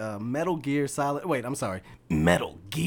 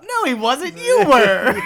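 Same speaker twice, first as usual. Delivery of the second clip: laughing high quote; 14 semitones higher, 12 dB louder, slower than usual. Retold or imitated. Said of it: "It's like".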